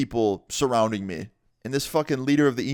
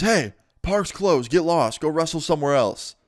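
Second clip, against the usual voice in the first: raised, higher voice of a cop; imitated cop's order; 5 semitones higher than usual. Cop clearing kids from skate park, imitated commanding call.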